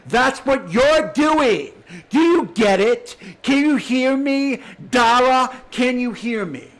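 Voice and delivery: loud, slow, cutting demand to be heard; angry demand. Real, not acted. Angry rant at the host.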